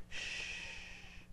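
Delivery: soft hushed whisper; gentle whispered reassurance. Acted. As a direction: hush them like a calming parent. God hushing.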